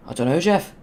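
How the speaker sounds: a light put-on of the meme line, rising on Jeff; a closer but still mild meme voice; meme impression. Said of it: "Doesn't sound like it at all, but it's more accurate".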